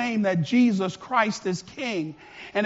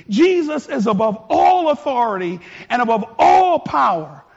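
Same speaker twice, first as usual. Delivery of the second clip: getting excited. Real, not acted. Preacher to congregation, growing fervor. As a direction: build the fire line by line. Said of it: "I'm getting excited".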